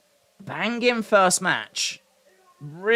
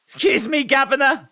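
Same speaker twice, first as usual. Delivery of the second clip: high mock British accent; 4 semitones higher than usual. Viewer mimicking wrestler's "Governor", high mock British accent. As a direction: put on a cartoonish British accent, pitched up. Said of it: "You're coming with that British accent".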